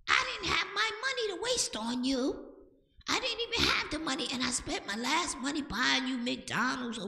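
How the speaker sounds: very high-pitched, fussing parent impression; high mock nagging, far above your own voice; scolding parent. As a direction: mimic an aggrieved parent in a squeaky high voice. Acting out parents scolding children in street.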